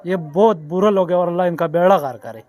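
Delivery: real indignant outburst, somewhat forceful; angry. Real, not acted. Shopkeeper condemning the politicians to an interviewer, angry. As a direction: curse them with real anger. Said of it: "आपको गुस्सा आ गया".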